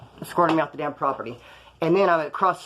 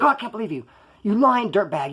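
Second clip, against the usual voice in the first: raised-pitch disbelief and insult; indignant accusation; 4 semitones higher than usual. Retold or imitated. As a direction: vent outrage down the phone. Retold angry phone quarrel.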